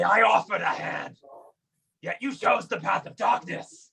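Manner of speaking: solemn accusation to a foe; righteous warrior's pronouncement; in-character declaration. Acted. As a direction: reproach the enemy, pitch climbing toward the end. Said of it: "I'll say".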